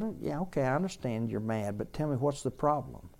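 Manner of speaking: soft, understanding de-escalation; calm an angry kid without raising your voice; calm, unraised voice. Retold or imitated. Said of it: "he never raises his voice".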